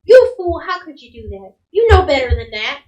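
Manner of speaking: mild mock scolding, loud attack; lightly voiced cross mom; scolding mother. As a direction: tell off your child, punching the first words. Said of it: "smacks the back of her head".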